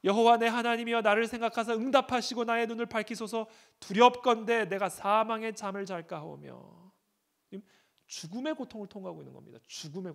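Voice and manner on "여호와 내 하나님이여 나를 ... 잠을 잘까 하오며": a preacher voicing David's desperate plea; anguished psalm reading. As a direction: cry the psalm out like David in pain.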